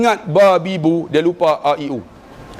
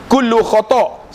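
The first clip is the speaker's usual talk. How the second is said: stern sheikh verdict; 4 semitones higher, slower than usual. Retold or imitated. Sheikh rejects the whole recitation.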